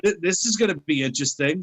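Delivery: high, quick retold wow; mock amazement. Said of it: "So I'm like".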